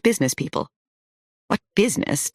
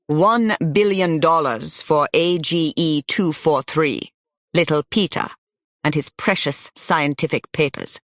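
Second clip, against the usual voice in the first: stentorian German bidder. Acted. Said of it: "A stentorian voice rose in the back".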